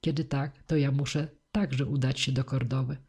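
plain reading voice

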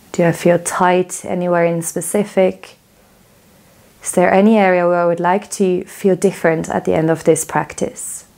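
calm, measured phrases with roomy pauses; unhurried yoga relaxation voice; guided body scan. Real, not acted. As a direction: guide their attention gently through the body.

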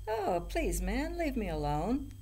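high, loud goat plea; middle goat. A narrator's reading. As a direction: beg off like a pestered goat. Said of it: "said the middle billy goat gruff".

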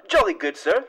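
posh British gent voice; jolly upper-class British tone; British accent. Acted. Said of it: "My accent's back".

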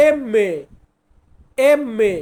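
এমমে with a long double m; Italian letter name. Shown as a demonstration. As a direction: say এমমে, the mm held. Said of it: "এমকে আমরা Italian ভাষাতে বলবো". (Italian উচ্চারণে এমমে)

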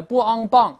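bang spelt out as "b, ang, bahng", loud and high; pinyin spelling-out. Shown as a demonstration. Teacher shows the mistake, bang read loudly as pinyin bāng. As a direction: sound out bang like Chinese pinyin with an "ah". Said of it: "那是汉语拼音了".

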